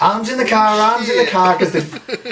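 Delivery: high urgent mock cry; panicked call. Imitating his wife shouting at the kids, high and urgent. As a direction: call arms in like a startled mum.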